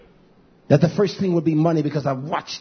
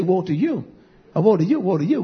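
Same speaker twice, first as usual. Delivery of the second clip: mocking whine. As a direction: lightly mimic a self-pitying complaint. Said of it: "That's how you talk".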